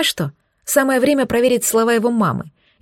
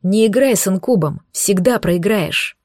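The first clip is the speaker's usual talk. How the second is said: slow hissed warning. Acted. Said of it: "продолжал шипеть демон".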